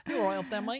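put-on light English accent, calling up the stairwell; a cheery English neighbour shouting up, English accent. Calling up to a head poking over the stairs, light English accent. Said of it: "we put English accents in America".

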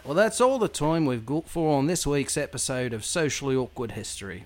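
put-on British accent drifting Australian; British accent that slips toward Australian. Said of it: "it sounds Australian now".

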